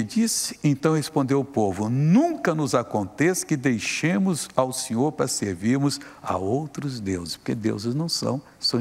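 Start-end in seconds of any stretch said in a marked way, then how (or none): 1.9-7.4 slow, emphatic scripture voice; measured solemn preaching; solemn quote. Acted. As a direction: stretch every word solemnly. Quotes the people's answer.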